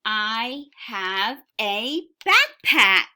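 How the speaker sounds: excited slow read-aloud; with excitement. Shown as a demonstration. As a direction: show the exclamation mark with your voice. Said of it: "So we say that with excitement".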